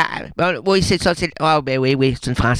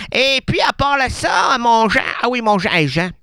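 calling out to Jean; 3 semitones higher than usual. Real, not acted.

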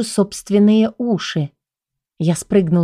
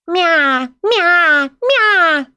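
серия высоких кошачьих воплей, всё выше и громче; орать по-кошачьи, удирая; орущее мяуканье; 10 semitones higher, much slower than usual. Acted. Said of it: "заорала я". (кошка убегает от охранника: нарастающий мяв)

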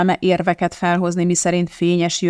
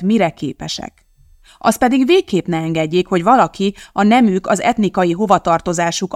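rousing speech. Acted.

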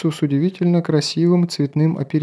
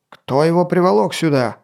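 barking; 4 semitones higher than usual. Acted. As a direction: bark it at the guards. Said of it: "зарявкал он".

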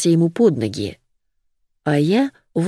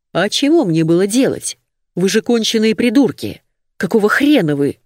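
angry shouting; 4 semitones higher than usual. Acted. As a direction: yell back at them, cornered. Cornered man shouting back at thugs.

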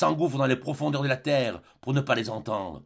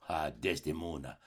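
much lower and softer, broken "Ah" before her name; anguished sigh; 9 semitones lower, 10 dB quieter than usual. Acted. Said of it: "Il sanglote". (soupir brisé, bien plus grave et doux)

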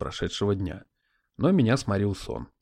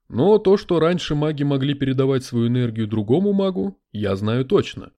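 spirit voice; 4 dB louder than usual. Acted. Spirit in a crystal ball.

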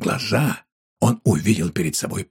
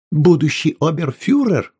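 loud, high startled gasp of realisation; suddenly impressed; surprised exclamation; 7 semitones higher, 5 dB louder than usual. A narrator's reading. Wife grasping the threat, loud surprised cry. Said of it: "воскликнула женщина".

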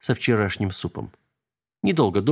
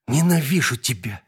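through gritted teeth; 4 semitones higher than usual. A narrator's reading. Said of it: "процедила она сквозь зубы".

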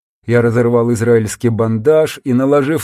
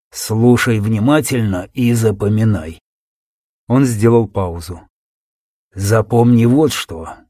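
wounded soldier. Acted. Dying soldier's urgent message.

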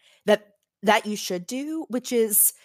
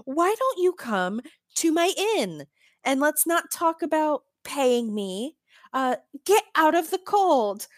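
Hama; 2 semitones higher than usual. Retold or imitated. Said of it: "Hama ... is like".

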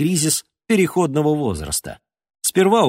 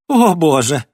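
breathed out; 5 semitones higher, 7 dB louder than usual. A narrator's reading. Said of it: "выдохнул Леон".

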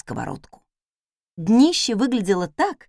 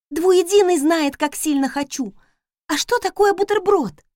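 eager maid; 8 semitones higher, 4 dB louder than usual. Acted. Maid eager, voiced higher.

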